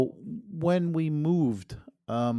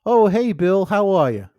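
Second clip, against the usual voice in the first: squeaky ventriloquist dummy; 4 semitones higher, 8 dB louder than usual. Acted. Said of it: "What do you wanna say to Bill?".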